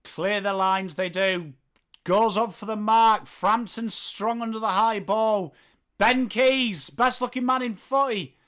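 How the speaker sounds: live footy commentary; play-by-play. Acted. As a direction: call the play as it unfolds.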